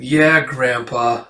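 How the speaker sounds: slow, deadpan sarcastic drag; sullen sarcasm. Acted. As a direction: draw it out with zero enthusiasm. Sullen sarcastic reply to grandpa.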